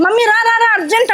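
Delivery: a hint of an impatient child calling for mummy; light, hurried call to come right now; urgent child. Son calling his mother urgently to the bathroom, mock urgent call. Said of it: "కొడుకు ఏమంటాడు?".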